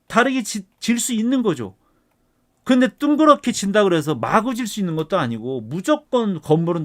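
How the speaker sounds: heated, indignant lecturing with punched key words; worked-up rant. Real, not acted. Professor venting at online experts who treat guidelines as law, worked-up rant. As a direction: argue it hotly, voice riding up. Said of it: "이렇게 막 흥분을 해가면서".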